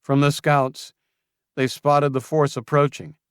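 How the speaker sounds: high, loud nervous answer; Julian flustered. Acted. Julian nervously answering Luke, high and loud. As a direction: cover the lie quickly. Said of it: "he stammered".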